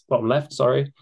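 normal talking voice

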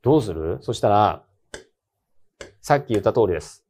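ordinary talk

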